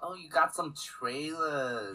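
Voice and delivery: put-on slow, drawn-out Boston accent; lazy Boston vowels, dropped R. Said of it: "Your cousin from Boston".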